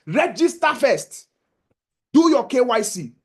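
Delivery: slow, deliberate push, each word weighed; slow urging. Real, not acted. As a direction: spell it out slowly so it sinks in. Urging listeners to register.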